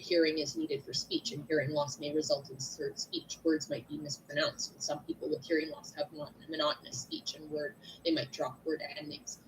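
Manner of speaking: monotone to mimic hearing loss; monotone read. Shown as a demonstration. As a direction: drone it out with no tone changes. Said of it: "if I just talk to you like this and I just read".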